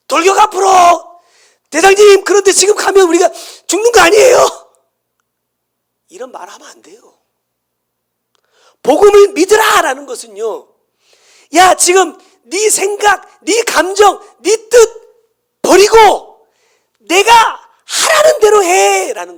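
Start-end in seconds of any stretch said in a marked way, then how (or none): 0.1-4.7 frightened soldier yelling at his captain; soldier's shout. Acted. Soldier questions captain's charge order. 11.5-19.4 high, loud and slow, almost crying out; preacher shouting God's demand to surrender; commanding shout. Acted.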